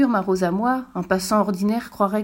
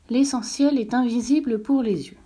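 put-on higher boyish prince voice repeating; a touch higher, young prince repeating; little prince repeating; 4 semitones higher than usual. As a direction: echo it back like a child memorizing. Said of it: "répéta le petit prince".

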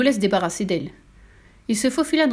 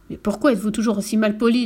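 ton de reproche. Acted. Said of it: "sur un ton de reproche".

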